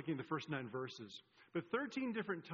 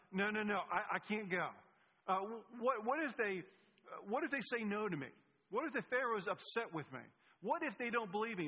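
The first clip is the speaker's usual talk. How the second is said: higher, stammering mock protest; hesitant, higher-pitched imitation of anxious excuses; worried objecting; 4 semitones higher than usual. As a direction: play a reluctant man piling up what-ifs. Moses voiced raising objections to God.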